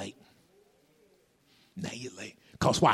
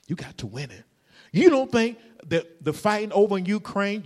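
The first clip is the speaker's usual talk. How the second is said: ordinary talk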